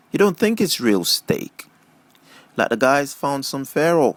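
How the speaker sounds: a hint of a chatty teen dreaming of a car; eager teenage girl. Jill chatters to her friend about getting a car, lightly voiced eager girl.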